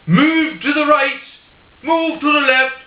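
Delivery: an Irishman coaxing his spider, in an easy Irish brogue; Irish accent. Retold or imitated. Paddy Irishman ordering the spider about, in a mock Irish accent. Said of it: "I'll do it in an Irish accent".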